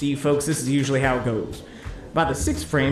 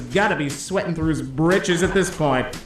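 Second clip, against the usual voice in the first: sportscaster play-by-play. Pretend. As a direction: call the strikes like a TV sports commentator. Live bowling play-by-play.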